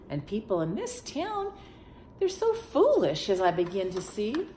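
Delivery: mildly indignant lion; miffed lion. Acted. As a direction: complain about the foolish town. Lion grumbles about town.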